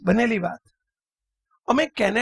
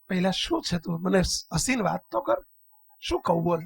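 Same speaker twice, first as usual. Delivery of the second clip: gentle coaxing; 4 semitones lower, 4 dB quieter than usual. Retold or imitated. Monk gently soothes crying child.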